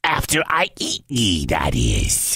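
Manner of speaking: giant voice sinking very low at the end; snorting giant. Acted. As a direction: add the threat in a deep rumble. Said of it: "snorted the giant".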